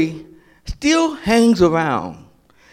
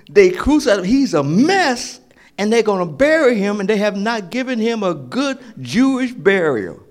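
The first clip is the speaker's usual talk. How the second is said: urgent Mary; 5 semitones higher, 4 dB louder than usual. Acted. Preacher voicing Mary's urgent words.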